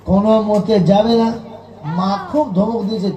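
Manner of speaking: normal talking voice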